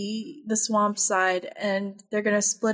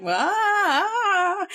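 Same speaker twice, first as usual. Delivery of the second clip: mock scream wail; 9 semitones higher than usual. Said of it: "he's, like, screaming".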